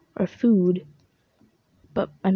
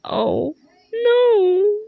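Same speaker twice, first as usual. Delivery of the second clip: high panicked cry; much slower than usual. Acted. Character crying out alarm.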